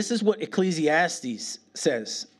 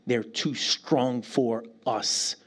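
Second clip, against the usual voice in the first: slow emphasis; 3 semitones lower, much slower than usual. Shown as a demonstration. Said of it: "repeated with emphasis".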